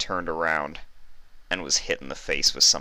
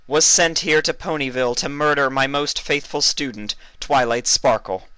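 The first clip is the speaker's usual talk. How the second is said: high, stately royal proclamation; regal princess address; 9 semitones higher, 6 dB louder than usual. Acted. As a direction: address the whole crowd like a queen. Celestia accuses Trixie.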